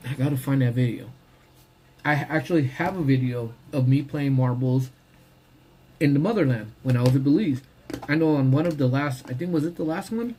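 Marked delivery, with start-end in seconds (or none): 2.0-10.3 talking while eating lunch; words round a bite of food; mouth full. Real, not acted. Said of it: "I'm talking to you guys with my mouth full".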